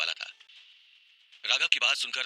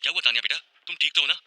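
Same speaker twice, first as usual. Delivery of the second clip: concerned, raised-pitch questions; worried questioning; 6 semitones higher, 4 dB louder, faster than usual. A narrator's reading. Seera finding Tanya crying, worried. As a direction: check anxiously that she is okay. Mother alarmed at crying daughter.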